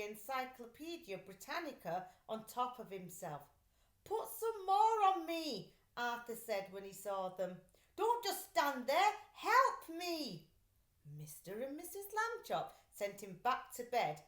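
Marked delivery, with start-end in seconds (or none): 4.0-5.7 high and loud, insisting; eager demand. Acted. Flattened boy demands more books. 7.9-10.5 higher and louder, urging; impatient plea. Acted. Flattened boy urges his parents.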